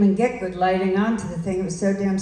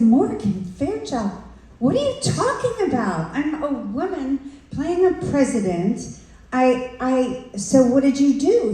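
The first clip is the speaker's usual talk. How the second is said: higher, disbelieving retort; incredulous outrage; 5 semitones higher than usual. Retold or imitated. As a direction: throw his excuse back at him. Retold outraged reply to director.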